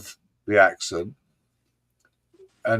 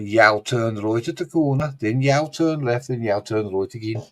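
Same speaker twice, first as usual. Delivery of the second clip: Black Country accent. Shown as a demonstration. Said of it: "So it's like".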